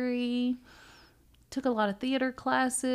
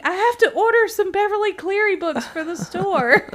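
laughing self-quote; 11 semitones higher, 10 dB louder than usual. Retold or imitated. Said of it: "I'm like".

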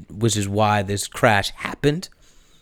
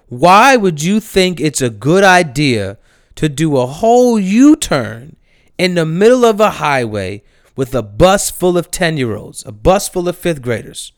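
angry rant; 3 semitones higher, 4 dB louder than usual. Real, not acted. Ranting at reckless bus driver.

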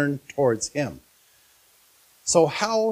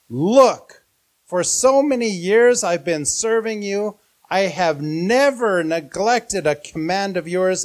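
raised, indignant voice at the father; enraged son; 4 semitones higher, 5 dB louder than usual. Acted. Eldest son angrily confronting his father, raised voice.

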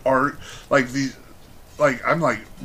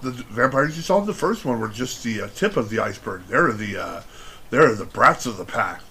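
lightly hammed spooky trailer; mock ominous movie pitch; 3 semitones lower, 3 dB quieter than usual. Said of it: "So they come up with".

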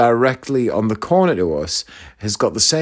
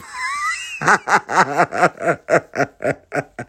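long burst of helpless laughter; 4 semitones higher than usual. Real, not acted. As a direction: laugh it out until it tails away. Laughs at the other policeman's reaction.

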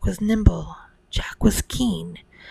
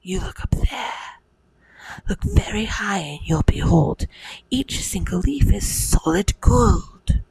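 put-on boy voice. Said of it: "cried Jack".

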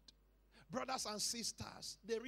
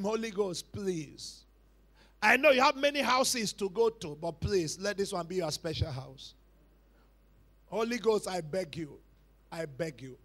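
pleading prayer; 4 semitones lower, 9 dB louder than usual. Acted.

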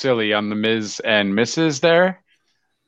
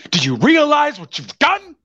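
movie character impression; 6 semitones higher than usual.

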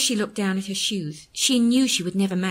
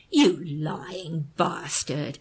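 raging; 3 semitones lower, much slower than usual. Acted. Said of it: "her carefully sculpted features contorted as she raged".

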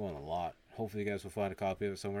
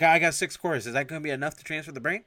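much louder and higher; loud excited voice; 7 semitones higher, 9 dB louder than usual. Retold or imitated. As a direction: announce it eagerly, then rush. Acted quote with quarters.

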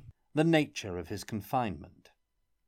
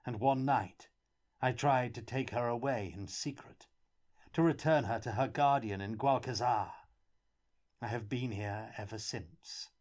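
hint of a broken captive, a little higher; lightly voiced prisoner; 4 semitones higher than usual. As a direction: tell it like a weary, grieving captive.

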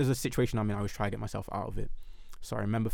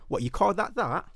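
mocking coworker, slow; 9 semitones higher, 4 dB louder than usual.

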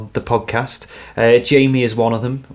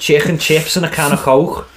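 put-on Scouse accent; 4 semitones higher than usual. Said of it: "Scouse accent".

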